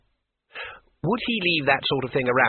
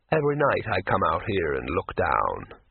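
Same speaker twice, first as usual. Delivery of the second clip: lightly voiced gentle troll remembering; 4 semitones lower than usual. Troll's closing words.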